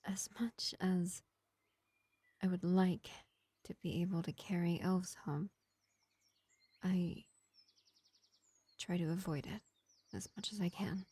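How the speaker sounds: lightly voiced vampire healer, projected above the chatty voice; gentle vampire medic. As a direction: play a measured vampire reassuring a wounded elf, with long pauses. Plays vampire medic to an elf.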